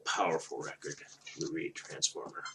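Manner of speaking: whispering. Real, not acted. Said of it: "repeat, second whispered".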